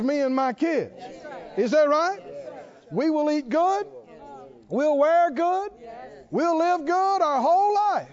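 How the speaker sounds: loud, high, rousing preacher's cry; preaching at full force. Acted. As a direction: lift the congregation with a fervent shout.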